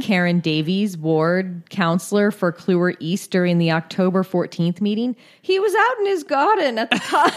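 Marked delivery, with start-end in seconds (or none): 5.4-7.3 high-pitched put-on British accent. Co-host quotes councillor on splattered man, giggly British accent. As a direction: play up the British accent till it cracks you up. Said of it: "decided to do an accent".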